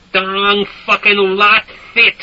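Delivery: slow, high, loud scream. A narrator's reading. Soldier screaming at villagers while firing, loud. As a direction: scream it over gunfire. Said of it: "Stink would be screaming".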